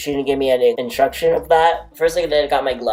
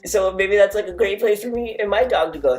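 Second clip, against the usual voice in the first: lightly raised mock cheerful voice; higher mock thought; 7 semitones higher than usual. Reacting to her odd voice, raised playful repeat. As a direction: pitch it up as a silly inner thought. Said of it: "I don't know what that was".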